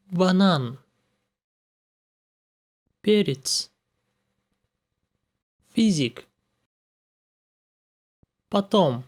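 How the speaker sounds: stressed vowel full and clear, unstressed ones short and relaxed in Банан; Пятьдесят with reduced unstressed vowels; vowel reduction. Shown as a demonstration. Teacher demonstrates vowel reduction with stressed words. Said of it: "Unstressed vowels pronounced short and relaxed".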